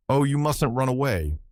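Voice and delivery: coy and fluttery, like a dowager clinging to a guest; skittish elderly dowager. Acted. Narrator pins the secretary with a mild skittish dowager air. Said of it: "with the skittish accent of an elderly dowager".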